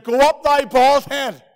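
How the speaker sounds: loud, slow jeering at the bald prophet; mocking taunt. Children mocking Elisha, a loud slow jeer. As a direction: taunt him loudly and slowly. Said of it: "Forty-two children began to mock Elisha".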